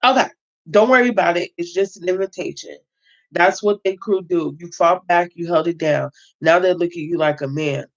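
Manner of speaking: steady read-aloud narration of a prison memoir; reading a novel aloud. Acted. Reader voicing the book's narrator, read-aloud narration. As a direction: read it like a story to your viewers.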